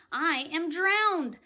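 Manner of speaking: slow, loud gasping; gasped. Acted. Grasshopper spitting out water, slow loud gasp. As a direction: gasp it out, half drowned. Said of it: "gasped the old green grasshopper".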